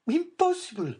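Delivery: high, loud disbelieving cry; cried out. A narrator's reading. Mother rejecting the drowning idea, high disbelieving cry. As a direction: refuse to believe it. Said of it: "cried Madame Danglars".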